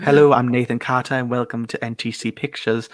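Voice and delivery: lightly put-on Northern English accent; mock channel intro in a Northern English accent; Nathan Carter. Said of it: "that's my impression of Nathan".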